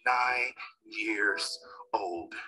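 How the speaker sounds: slow, near-whispered; quiet heavy pause before it; hushed. Real, not acted. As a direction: let it fall to a whisper. Painful memory, voice drops.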